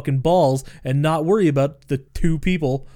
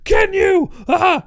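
high, loud hammed-up taunting shriek; mock villain taunt; 7 dB louder, slower than usual. Villain taunting Ryan up close, hammed-up shriek. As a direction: get in his face and screech it.

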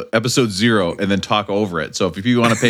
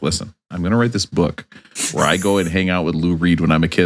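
Michael Imperioli impression; 6 semitones lower than usual. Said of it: "He's like".

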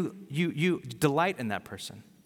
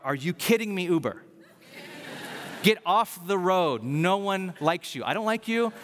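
yelling in car; 3 semitones higher than usual. Retold or imitated. Driver scolding an Uber from the car, mock-angry. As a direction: re-enact exasperated yelling without full volume. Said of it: "I yell out loud in my car".

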